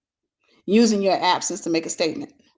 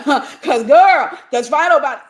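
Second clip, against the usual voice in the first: mock sassy retort; 6 semitones higher, 9 dB louder than usual. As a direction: throw it back with attitude. Mocking retort in a story.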